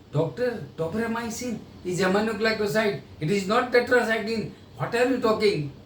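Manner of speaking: a mild hint of a blunt know-it-all rep; rude correction. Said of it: "You will kill the business".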